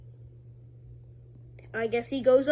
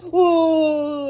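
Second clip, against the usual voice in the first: startled whoa; 5 semitones higher, 10 dB louder than usual. Retold or imitated. Character startled by bat swing.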